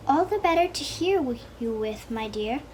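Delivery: sweet old-lady put-on, fading at the end; best grandmother voice. Wolf in disguise answering the girl, mild granny voice. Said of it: "in his best grandmother voice".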